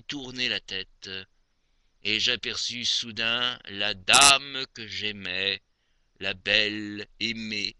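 measured poetry reading with long pauses between phrases; poem recitation. Acted. Reciting Maupassant's moonlit poem to dear Aimée, poem recitation. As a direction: recite each verse phrase by phrase, expressively.

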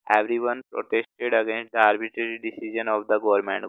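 every word spaced out for writing; slow dictation. Shown as a demonstration. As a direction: read slowly so the class can copy. Teacher dictates example sentence. (धीमे-धीमे लिखवाना)

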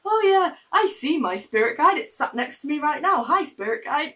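high, airy mock of a spirit-guide believer; mocking strange people. Mocking the odd people who see spirit guides, in a high airy voice. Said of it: "strange people that are like".

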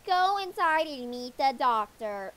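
yelling teacher. Acted. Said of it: "She's yelling at us".

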